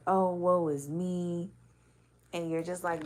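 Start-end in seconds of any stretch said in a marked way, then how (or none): 0.1-1.5 slow, drawn-out mock lament; mock crying. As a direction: imitate a self-pitying wail, drawing out the words. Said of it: "crying like".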